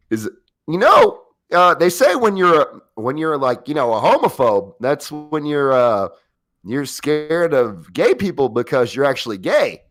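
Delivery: lightly imitated dry deadpan comic; halting, folksy joke delivery; Norm Macdonald. Friend tells his joke as Norm Macdonald, a light impression. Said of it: "I wrote in Norm Macdonald's voice".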